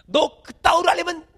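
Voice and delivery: mild mock yell of an angry father; a hint of a father throwing his son out. Father scolding son, mild mock yell. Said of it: "이러는 집들이 있어요".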